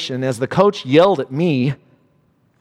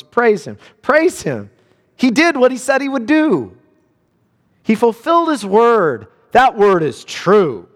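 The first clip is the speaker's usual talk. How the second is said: proclaiming; 5 semitones higher than usual. A narrator's reading. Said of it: "a voice breaks out from the throne".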